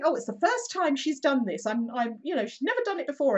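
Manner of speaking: high, fluster-y excuses; mock flustered excuse. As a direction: play the embarrassed dog owner pleading. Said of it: "the woman's sort of saying".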